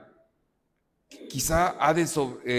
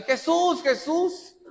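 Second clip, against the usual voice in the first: high-pitched excited calling of a name; high, ringing street cry; child shouting out; 13 semitones higher, slower than usual. Acted. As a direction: call out like a child spotting someone famous. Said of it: "empezó a gritar".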